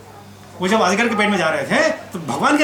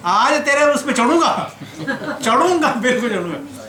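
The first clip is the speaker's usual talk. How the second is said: emphatic vow; 5 semitones higher than usual. Retold or imitated. God vowing to claim his piggyback ride, mock-emphatic. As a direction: playfully insist on getting your turn.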